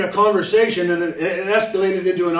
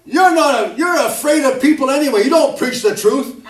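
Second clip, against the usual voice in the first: higher, louder, pointed rebuke; wife's rebuke; 5 semitones higher, 4 dB louder than usual. Retold or imitated. Wife rebuking her husband mid-argument, higher and louder. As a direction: hit him with the hard truth. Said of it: "She'd say".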